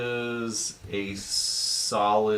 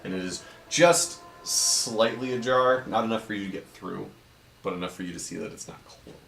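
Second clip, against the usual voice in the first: game master scene setting; 3 dB quieter than usual. A narrator's reading. DM describing the carved stone door to the party, measured and soft. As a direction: lightly read dungeon description, a bit softer.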